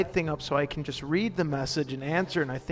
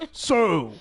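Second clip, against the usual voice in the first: mock Witcher voice; 3 semitones higher, 4 dB louder, slower than usual. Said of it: "you decide to stream The Witcher".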